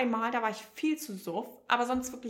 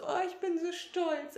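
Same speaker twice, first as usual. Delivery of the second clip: high, drawn-out gush of pride; proud gushing; 7 semitones higher than usual. Retold or imitated. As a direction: imitate a proud friend, slow and high. Friend's proud message acted out. (stolzes Schwärmen, nachgeahmt)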